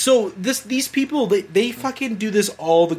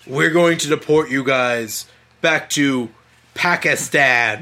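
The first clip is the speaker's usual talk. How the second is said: slow, lightly voiced threatening caller; mock scam caller; 5 semitones lower, slower than usual. Retelling the deportation scam call, slow mock caller voice. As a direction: drag it out like a scripted threat. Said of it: "It's like".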